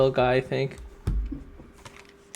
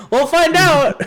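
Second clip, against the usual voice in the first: excited; 13 semitones higher, 6 dB louder than usual. Real, not acted. Excited playful exclamation.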